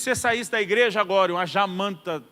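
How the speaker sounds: loud retold warning with a weighty pause; dramatic. Pastor puts a grim hypothetical to young Luciano, dramatic. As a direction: build the scenario dramatically. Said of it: "ele foi bem dramático".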